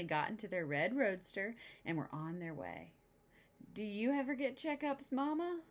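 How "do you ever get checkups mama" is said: put-on curious little girl. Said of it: "Sister asked".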